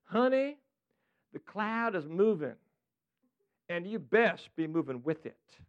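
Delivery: slow, proper Southern drawl; God speaking in a measured Southern drawl; Southern belle accent. Acted. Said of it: "very proper Southern belle".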